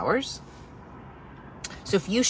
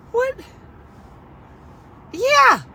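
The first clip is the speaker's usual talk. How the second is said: emphatic; 7 dB louder than usual. Real, not acted. Emphatic outburst.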